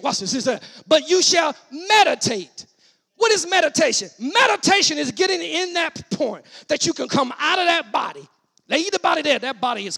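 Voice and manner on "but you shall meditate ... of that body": raised teaching-from-the-pulpit voice; punched, drawn-out key words; emphatic preaching. Acted. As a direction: proclaim and explain it forcefully. Preaches at full force.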